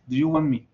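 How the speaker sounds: "want" said "won", no T before "me"; silent T in want. Shown as a demonstration. Teacher answering student, "want" with silent T. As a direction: drop the T, say "won me". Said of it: "Sería algo similar a esto".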